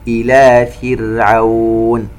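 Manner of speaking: slow chanted tajweed recitation with echoing qāf; Quran recitation. Shown as a demonstration. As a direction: recite slowly, bouncing the qāf. (تلاوة مرتلة ببطء مع قلقلة القاف)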